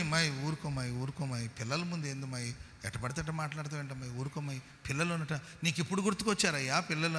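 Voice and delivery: quietly begging his wife to stop; hushed pleading. Retold or imitated. Father hushing scolding wife. (భార్యను నెమ్మదిగా ఊరుకోమని బతిమాలుతూ)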